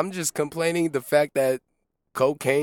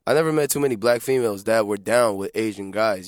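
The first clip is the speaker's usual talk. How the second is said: tipsy, a little slurred; 6 semitones lower than usual. Real, not acted. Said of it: "I'm drunk".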